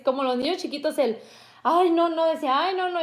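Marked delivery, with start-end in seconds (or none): 1.6-2.3 higher-pitched mock whine of protest; imitated distressed refusal; retold squeamish protest. Retold child protesting nose swab. 2.6-3.0 higher-pitched mock whine of protest; imitated distressed refusal; retold squeamish protest. Retold child protesting nose swab.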